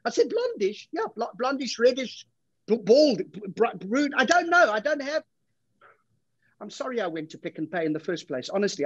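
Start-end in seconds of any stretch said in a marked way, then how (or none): 0.3-0.9 a very high, disbelieving "Blondish?"; incredulous. Acted. Boyfriend doubting girlfriend's description, incredulous high pitch. 0.9-5.2 flustered stammer. Acted. Stammering boyfriend guessing hair colour.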